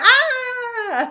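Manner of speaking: loud, high, delighted gasp and cry.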